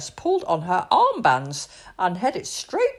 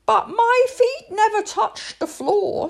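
cheeky laughing plea; 13 semitones higher, 6 dB louder than usual. A narrator's reading. Princess pleads cheekily.

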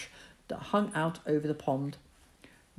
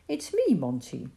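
coaxing gently to a scared kitten; a boy soothing a frightened kitten; 3 semitones higher than usual. Acted. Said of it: "as soothing a tone as he could manage".

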